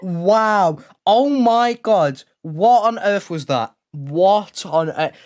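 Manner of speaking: slow, drawn-out amazed words; stunned disbelief. Real, not acted. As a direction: let the shock sink in slowly. Stunned at the miss.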